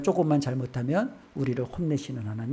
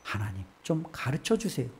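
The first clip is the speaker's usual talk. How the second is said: plaintive plea; 4 semitones lower, 7 dB quieter than usual. Retold or imitated. Job asking God why this happened, softly pleading. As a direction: ask God gently, fading away. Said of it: "욥의 질문은 뭐예요?".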